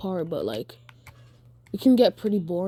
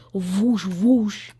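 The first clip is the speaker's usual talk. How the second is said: imitated whoosh. Imitating fire of the kick.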